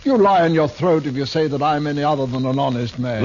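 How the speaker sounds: loud, offended stage retort; indignant outburst. Acted. Actor rebukes the marshal for doubting his honesty, loud and indignant. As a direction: hurl it back as a wounded gentleman.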